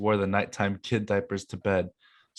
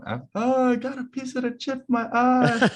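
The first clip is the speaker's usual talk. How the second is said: much higher, whining about your eye; mock panicked kid shriek; high whiny kid voice; 14 semitones higher than usual.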